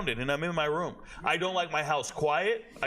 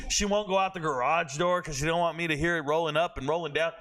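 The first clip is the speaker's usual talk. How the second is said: ordinary talk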